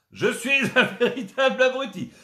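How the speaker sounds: high, loud, laughing through it; giggling game shout; laughing catchphrase. Acted. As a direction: crack up mid-catchphrase.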